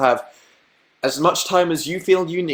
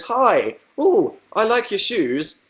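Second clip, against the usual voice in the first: Jade's greeting; 7 semitones higher, slower than usual. Retold or imitated. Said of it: "Jade goes".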